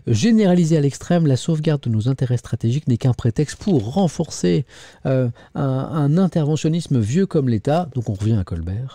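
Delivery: emphatic newspaper reading; editorial read-aloud. Acted. Presenter reading a scathing editorial to viewers, emphatic read-aloud. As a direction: read it out in measured phrases.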